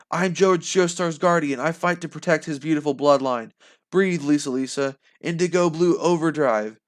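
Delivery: whisper to shout. Acted. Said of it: "started as a whisper and ended as a shout".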